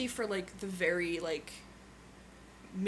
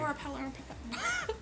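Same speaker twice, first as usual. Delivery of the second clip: put-on Yorkshire accent; 7 semitones higher, 4 dB quieter than usual. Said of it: "my Yorkshire accent comes out".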